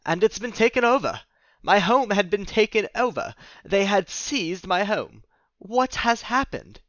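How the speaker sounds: rising panic at his lost home; alarmed outcry. Acted. Dennis finds home seized.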